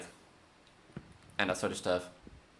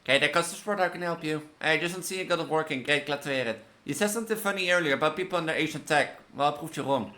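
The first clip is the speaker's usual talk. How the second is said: lively, higher than own chat; reading game dialogue; 6 semitones higher than usual. Acted. Support agent helping a caller, acted dialogue read-aloud. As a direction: voice the tech support call.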